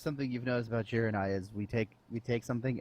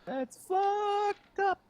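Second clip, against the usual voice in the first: very slow and much higher, stretched out; drawn-out disbelief; much slower than usual. Real, not acted. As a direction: drag it out in shocked disbelief. Reacting to grim prophecy.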